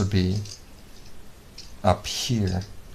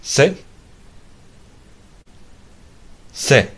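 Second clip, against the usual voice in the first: firm raised command to a pet; 6 semitones higher, 7 dB quieter, much slower than usual. Real, not acted. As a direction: call the command out, higher each time. Giving commands to robot dog.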